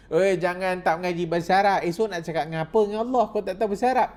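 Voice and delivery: a hint of a stern elder nagging; mock scolding. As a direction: tease them like a scolding elder. Mock scolding of non-learners.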